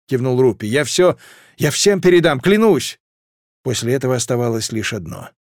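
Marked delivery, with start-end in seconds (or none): 0.7-3.0 rising, higher urgent promise; emotional vow. Acted. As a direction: swear it with rising feeling. Rupi swearing emotionally.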